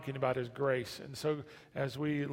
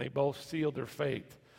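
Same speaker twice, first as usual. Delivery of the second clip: ordinary delivery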